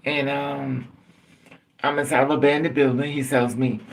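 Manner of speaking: normal talking voice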